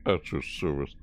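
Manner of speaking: mock butler; imitating Blade. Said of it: "Blade's like".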